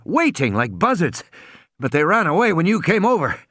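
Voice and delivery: lightly voiced nervous man. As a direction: babble it out fast and rattled. Gennaro character voice.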